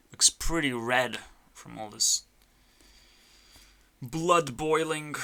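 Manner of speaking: whispered teasing aside. Acted. Teasing the clown about his red nose, whispered. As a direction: breathe it like a secret.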